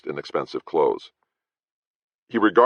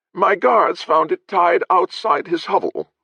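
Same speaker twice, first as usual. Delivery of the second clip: haughty lord; 5 dB louder, slower than usual. Acted.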